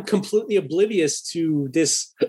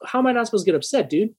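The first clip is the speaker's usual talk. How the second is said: heated; 4 semitones higher than usual. Retold or imitated. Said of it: "I was kinda heated in the truck".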